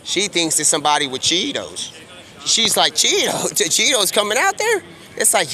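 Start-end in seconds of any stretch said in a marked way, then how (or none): 2.9-4.8 higher-pitched incredulous question; mock surprise, rising with a little laugh; acting out a baffled double-take; puzzled surprise. Mimics Zilla mishearing Tiger as Cheetos.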